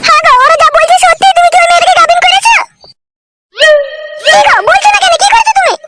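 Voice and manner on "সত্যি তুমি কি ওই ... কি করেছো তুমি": sharp, raised demand at her husband; angry demand. Acted. Wife shouting at husband about the pregnancy, angry. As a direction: confront him hard, higher.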